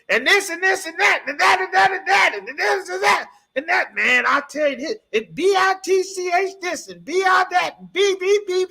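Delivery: high, loud mock chatter from inside the house; mock nagging chatter. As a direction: parody a room full of loud talk. Imitating women's noisy chatter.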